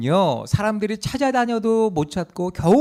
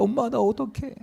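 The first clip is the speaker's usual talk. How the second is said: higher-pitched mock plea; acted lament; 4 semitones higher, 4 dB quieter than usual. Young passenger lamenting to mom by phone, acted plea. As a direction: imitate a helpless complaint to mom. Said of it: "하소연을 하는 거예요".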